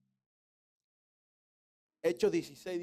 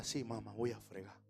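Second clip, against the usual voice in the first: meek son; 6 semitones lower, 10 dB quieter than usual. Retold or imitated. Obedient son answering mother.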